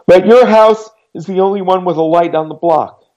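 a hint of a nervous girl explaining herself; girl's voice apologising in the rain; girlish voice. A narrator's reading. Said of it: "The voice was girlish".

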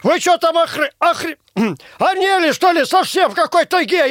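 outraged high shouting; angry yell. Acted. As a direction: yell in furious disbelief. Boss yelling at prank birthday.

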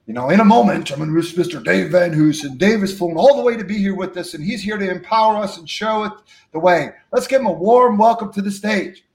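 master of ceremonies introducing a guest; acted stage introduction. Promoter welcomes the speaker to the stage, acted introduction. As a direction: announce the guest to a full hall.

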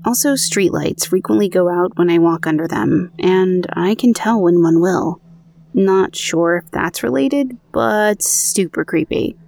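even, measured podcast read of a true ghost story; narrating an eerie personal account; story narration. A narrator's reading. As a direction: read the listener's account aloud, steady and clear. Reads out listener's story.

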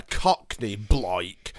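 slow, drawn-out Cockney vowels. Shown as a demonstration. Describing an actor's funny accent, hammed-up Cockney. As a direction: have a rough go at Cockney, stretching it. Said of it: "I don't know what voice that was".

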